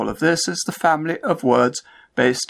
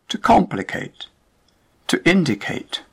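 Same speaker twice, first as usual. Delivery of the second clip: to COMplicate, to INdicate, first syllable hit, falling; first syllable stressed; 5 semitones higher than usual. Shown as a demonstration. Teacher contrasting verbs for learners, first syllable stressed. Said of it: "stressed on the first syllable".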